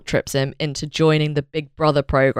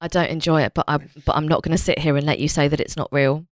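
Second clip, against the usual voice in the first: lightly voiced indignant auntie; a hint of a scolding auntie; 2 semitones lower, faster than usual. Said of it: "You suddenly put on your auntie voice".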